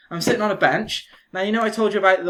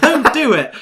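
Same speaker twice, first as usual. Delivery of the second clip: emphatic warning; 7 semitones higher, 7 dB louder than usual. Real, not acted. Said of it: "warning the audience".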